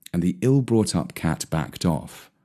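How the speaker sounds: ordinary delivery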